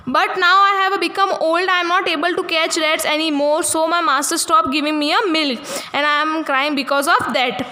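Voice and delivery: put-on slow, careful reading aloud for young pupils; slow story reading. A narrator's reading. Teacher reading the English story to her class, slow and careful. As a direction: read each word out slowly for the class.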